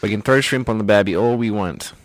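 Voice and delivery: playful mock Australian accent; hammed-up Australian twang. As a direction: put on a jokey Aussie accent. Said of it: "I'm really losing the Australian accent".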